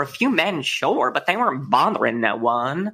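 mock-indignant Southern mother; Southern accent. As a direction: play it folksy and Southern. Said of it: "Southern accents".

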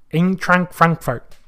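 slow, careful German accent on Eintracht Frankfurt. Shown as a demonstration. Host correcting himself to viewers, German accent on the team name. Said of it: "You have to say it in a German accent".

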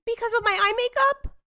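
high, bright spoiled heiress; London voice. Acted. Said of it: "You will be London".

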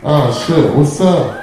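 loud surprised hello; loud greeting. Real, not acted. Comic spotting someone in the front row, loud surprised greeting. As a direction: call out to a friend in surprise.

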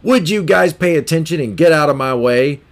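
irritated man snapping at a queue; angry man. Retold or imitated. Angry man in the grocery line snapping at two shoppers, irritated. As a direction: bark it at the people holding you up. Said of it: "an angry man comes up behind them and says".

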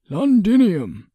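high, slow, drawn-out prompt; supply the word with an audible smile; smiling. A narrator's reading. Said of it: "Emerus supplied with a smile".

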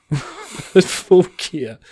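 mock menacing Taz. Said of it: "menacingly says".

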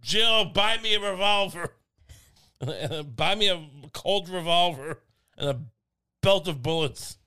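mock Biden demanding a revolver; hammed-up Biden order. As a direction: bark it like a cowboy. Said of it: "he said".

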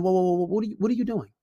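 soft, mildly calming interruption; calm cut-in. Acted. Man questioning his upset girlfriend, soft and calm. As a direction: softly check someone who is ranting. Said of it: "but, but be calm".

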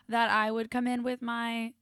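slow, sultry jazz radio voice; sexy jazz voice. Pretend. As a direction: croon it like a late-night jazz DJ. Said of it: "my sexy jazz voice for you".

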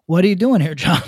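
put-on hammy stereotyped Asian accent, half joking; mock Asian accent. Podcaster voicing a Chinese official phoning John Cena, mock Asian accent. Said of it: "That's my Asian voice".

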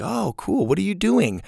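high, light, interested question; innocent curiosity. Shown as a demonstration. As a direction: ask like you think it's cool. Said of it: "that kind of innocent curiosity".

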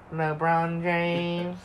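very slow drawn-out LeBron James; LeBron James Vine. Retold or imitated. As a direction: stretch out the name slowly. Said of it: "that stupid ass fucking Vine".

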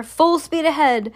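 excited captain's cry; storybook shout. A narrator's reading. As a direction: slowly call out the order to the crew. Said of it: "shouted Mister Wonka".

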